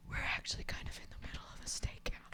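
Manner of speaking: fast, hushed aside whisper. Pretend. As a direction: whisper it quickly to her. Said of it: "imagining whispering to her".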